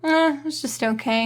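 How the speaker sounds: a flat, bored "Eh, it's just okay"; unimpressed shrug. Retold or imitated. Imagined buyer shrugging off the product, mildly unimpressed. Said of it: "being like".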